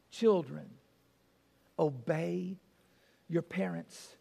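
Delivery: low, measured verse with long pauses; solemn scripture reading. Real, not acted. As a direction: read it out slowly and weightily, softening. Reads the verse aloud to children.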